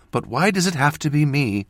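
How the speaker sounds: high, pleading cry of protest; acted distress, still held in; distressed mother. A narrator's reading. Mother grieving for her child, distressed plea. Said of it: "she said with a shuddering sob".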